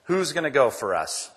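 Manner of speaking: loud, high, ringing call; booming preacher's voice of God. Retold or imitated. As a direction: call it out like God summoning a volunteer. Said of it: "and he says".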